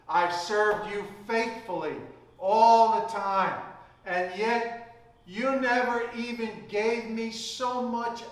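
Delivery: a mild mock grievance building up; aggrieved complaint. Son complaining to his father, rising resentment. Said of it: "he answered and said to his father".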